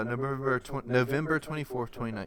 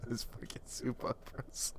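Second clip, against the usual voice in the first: whisper; 8 dB quieter than usual. Real, not acted. Muttered aside.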